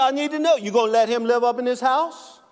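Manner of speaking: hammed-up husband insisting he needs to know; mock demanding husband. Husband demands answer in joke.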